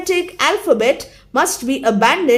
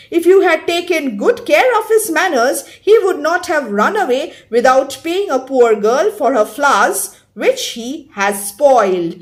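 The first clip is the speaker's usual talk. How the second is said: Cockney accent. Shown as a demonstration. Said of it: "Here with apologies, this desperate attempt".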